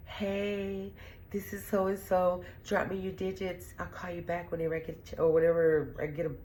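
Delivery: lightly mocked voicemail greeting. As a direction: play a cheesy answering message.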